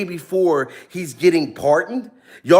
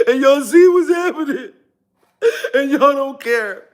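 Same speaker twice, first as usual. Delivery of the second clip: hammed-up tearful wail, pitched higher; mock crying; 5 semitones higher than usual. Pretending to weep to his viewers, hammed-up crying. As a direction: fake sob through the words. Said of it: "I've been down here crying".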